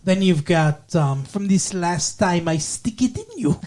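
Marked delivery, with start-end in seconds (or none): 1.2-3.6 mock Russian accent; funny quote in a fake Russian accent; John Malkovich. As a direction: imitate a hammy, made-up Russian accent. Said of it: "makes a lot of his lines very funny".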